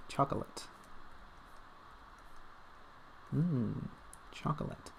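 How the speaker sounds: breathy near-whisper of desire; dreamy craving. Pretend. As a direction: sigh the word like a guilty treat.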